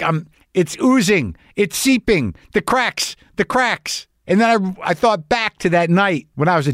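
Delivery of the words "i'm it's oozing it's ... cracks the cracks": higher, hammed-up lament; a hammed-up, slowing wail; mock dramatic. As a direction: overplay the sadness leaking out. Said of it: "I'm like".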